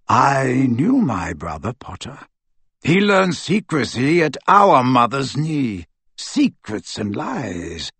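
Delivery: put-on bitter old wizard. Aberforth on his secretive brother, mildly bitter. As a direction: let the old resentment show a little.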